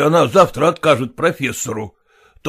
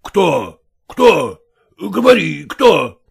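rising angry demand, louder each time; father pressing his wife for the name, getting louder; demanding shout; 2 semitones higher, 4 dB louder, much slower than usual. Acted. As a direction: bark the question at her.

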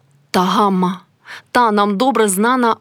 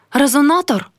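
anxious question; 6 semitones higher than usual. Acted. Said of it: "спитала Ганнуся".

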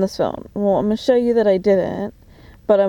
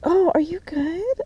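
higher, slower mock-sweet concern; 8 semitones higher, slower than usual. Mocking the kid asking if she's okay, high and syrupy. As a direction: parrot his fake concern back, higher. Imitating the kid's question.

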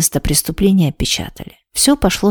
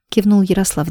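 ordinary delivery

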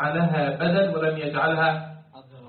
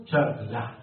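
Egyptian "شغلة" ending in a short open "-ah"; plain Egyptian "shaghlah"; Egyptian accent; 3 semitones lower, slower than usual. Shown as a demonstration. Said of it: "لو كنت تنطق نطقا مصريا تقول".

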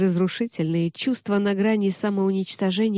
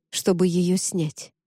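usual speaking voice

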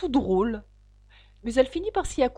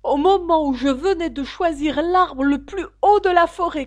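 plaintive pigeon; 7 semitones higher, 9 dB louder than usual. Acted. Pigeon complaining past Alice, high plaintive voice. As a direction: list each failure with mounting despair.

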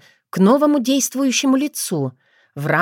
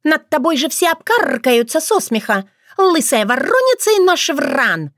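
much higher, scornful jeering; mocking insult; 8 semitones higher than usual. A narrator's reading. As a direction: sneer her down as bald. Mother insults the bride.

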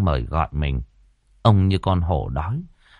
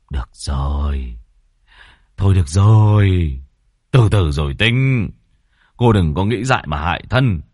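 softened voice; 4 dB louder than usual. A narrator's reading. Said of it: "Ông dịu giọng".

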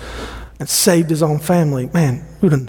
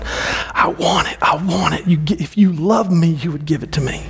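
put-on whiny child. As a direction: plead like a child who won't wait. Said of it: "when we're going".

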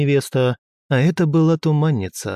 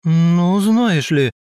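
louder, higher indignant outburst; indignant exclaim; 5 semitones higher, 4 dB louder, much slower than usual. A narrator's reading. Former pride leader answers the cheeky girl, indignant louder outburst. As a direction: huff it out, offended. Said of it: "возмущённо воскликнула".

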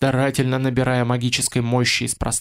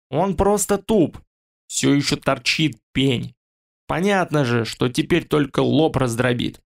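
gurgling fish man croak. Acted. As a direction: croak through water in the throat. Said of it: "услышали его булькающий голос". (булькающий голос рыболюда)

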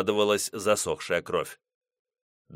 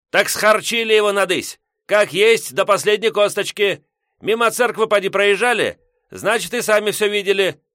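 put-on grumpy old man; 11 semitones higher, 6 dB louder than usual. Headman yelling.

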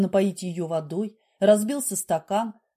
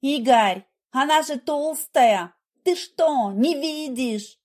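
high, loud jealous nagging; wife jealously berating her husband; shrill accusation; 4 semitones higher, 4 dB louder, slower than usual. A narrator's reading. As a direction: demand he see it, furious.

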